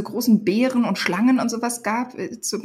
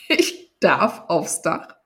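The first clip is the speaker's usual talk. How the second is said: incredulous; 3 semitones lower, much slower than usual. Acted. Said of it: "fragte ich ungläubig".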